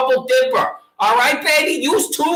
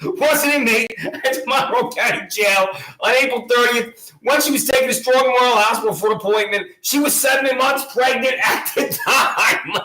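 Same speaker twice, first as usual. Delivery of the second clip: stifling laughter. Real, not acted. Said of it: "I'm trying not to laugh".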